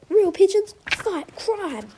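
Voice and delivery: slow, proud, loud declaration; triumphant. A narrator's reading. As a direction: proclaim it like a slogan.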